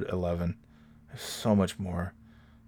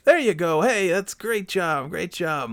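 much higher sing-song coaxing voice; dad coaching a kid; 12 semitones higher than usual. Retold or imitated. Dad coaching a kid to swim, high sing-song praise. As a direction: praise a small child warmly. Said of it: "He's like".

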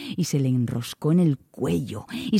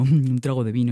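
lower, chuckling repeat; laughing drunkard; 6 semitones lower than usual. Acted. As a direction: laugh with delight at the promise of wine. Tipsy man hears wine.

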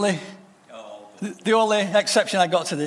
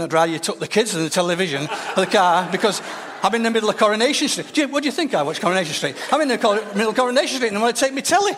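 mock excited viewer; 2 semitones higher than usual. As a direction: gabble it like someone glued to the telly. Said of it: "some of you will be thinking".

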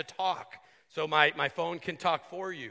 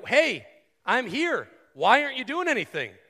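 impatient demand; 6 semitones higher than usual. Retold or imitated. Pastor voicing believers impatient with God, higher, quick demand. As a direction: hurry up, I'm waiting here.

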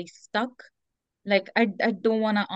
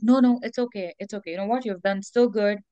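self-soothing. Retold or imitated. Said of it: "you're just like".

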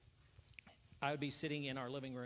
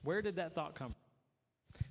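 slow, puzzled self-questioning; slow musing question; 4 dB louder, slower than usual. Shown as a demonstration. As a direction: draw it out slowly, wondering. Repeating the question, slowing down.

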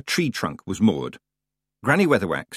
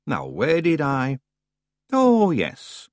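put-on old woman searching; 6 semitones higher, much slower than usual. Missus Umbridge searching counter.

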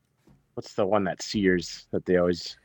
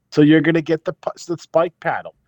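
high, eager pitchman listing; infomercial; 7 semitones higher than usual. Pretend. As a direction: rattle off the deal. Infomercial bit continues.

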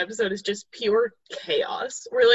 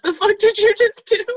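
mock furious; 10 semitones higher, 7 dB louder than usual. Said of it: "And Martin's like".

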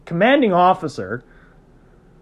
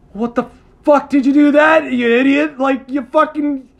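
mocking friends; 7 semitones higher, 4 dB louder than usual. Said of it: "they're like".

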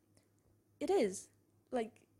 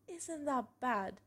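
slow, higher, mildly pained quote; imitated tearful question; 4 semitones higher, slower than usual. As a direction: repeat a crying friend's words with a touch of hurt. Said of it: "crying so bad".

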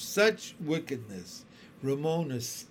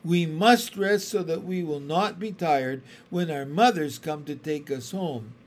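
sharp; 4 dB louder than usual. Acted. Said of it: "Miss Binny's voice was sharp".

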